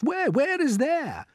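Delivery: very high puzzled Where; the friends asking in surprise; eager question. A narrator's reading. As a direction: blurt it out wide-eyed. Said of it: "they asked".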